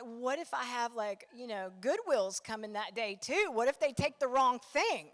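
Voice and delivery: building panic over the porch; anxious worried questions. Retold or imitated. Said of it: "I'm like".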